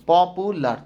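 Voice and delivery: পপুলার broken into three syllables; split into syllables. Shown as a demonstration. Teacher counts syllables for students, পপুলার split in three. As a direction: say পপুলার in three separate beats. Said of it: "তিনবারে উচ্চারণ হচ্ছে".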